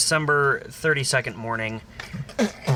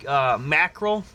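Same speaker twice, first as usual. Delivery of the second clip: mock Australian hawker, pitched higher; Aussie fish seller; 6 semitones higher than usual. Bloke pushing fish on a man walking to work, mock Aussie accent. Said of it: "a couple blokes approached me and they're like".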